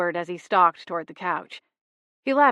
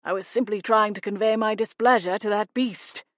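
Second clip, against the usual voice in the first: hissed protest; 2 semitones higher than usual. A narrator's reading. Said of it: "Flapjack hissed in protest".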